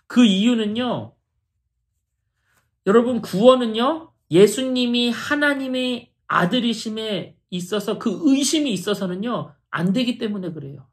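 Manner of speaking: normal talking voice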